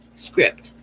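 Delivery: a single whispered word. Real, not acted. Reader flipping words, whispering script. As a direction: breathe it out in a whisper. Word said under her breath.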